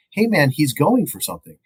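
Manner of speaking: high-pitched mock yell, no real volume; half-hearted retold screaming. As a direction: imitate a screamer without shouting. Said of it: "the woman's just screaming".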